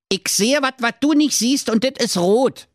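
high Berliner voice, "wat" and "dit" with t; Berlin dialect. Acted. Jakob Grimm in Berlin dialect. (Berliner Schnauze)

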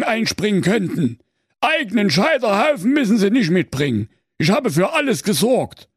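high, wheedling, eager executioner; timid executioner voice. A narrator's reading. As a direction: coax the witch politely. Executioner persuades the witch.

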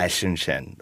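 American struggling with German word; struggling try. Shown as a demonstration. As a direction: fumble the German Eichhörnchen. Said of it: "That's the exact thing I cannot do".

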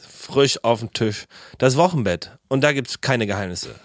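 punchy show intro; announcer voice. Acted. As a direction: announce the podcast title. Repeated intro read.

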